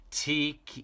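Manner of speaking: out of breath, gasping; panting. Acted. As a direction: pant the word out. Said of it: "he panted".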